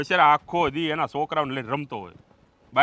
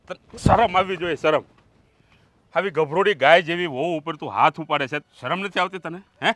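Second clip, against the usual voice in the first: loud, indignant father's reprimand; angry scolding; 5 dB louder than usual. Acted. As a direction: shame your son with raised voice. Father scolding son for hitting wife. (ગુસ્સાભર્યો ઊંચા અવાજનો ઠપકો)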